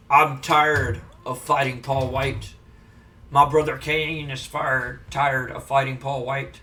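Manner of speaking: low, slow Undertaker drawl. Retold or imitated. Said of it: "and he goes".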